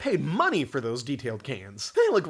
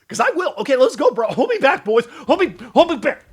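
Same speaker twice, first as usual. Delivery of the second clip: mock tough guy; 7 semitones higher, 9 dB louder than usual. Mock tough-guy challenge to the film.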